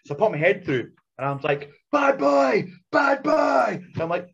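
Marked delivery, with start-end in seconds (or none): 1.9-3.8 high, loud teasing scold; playful loud telling-off; mock scolding. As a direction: tell off a naughty dog. Mock scolding a drunk friend.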